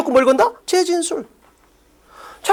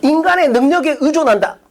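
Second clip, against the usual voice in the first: clueless student reading. Retold or imitated. Teacher mimics a student who only thinks they understood, mock clueless reading. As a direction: imitate a student reading mindlessly. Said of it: "그냥 존나 멍청하게 읽는 거야".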